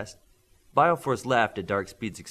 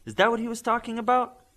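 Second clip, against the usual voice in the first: lightly voiced Midas; 13 semitones higher, 4 dB louder than usual. A narrator's reading.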